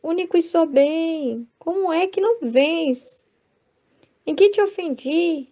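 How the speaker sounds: gentle, loving reproach; intimate and tender. Shown as a demonstration. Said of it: "Porque ela tem intimidade com Jesus".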